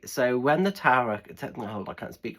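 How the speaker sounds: words slurring round slipping teeth; talking with loose dentures. Real, not acted. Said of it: "Put my teeth back in".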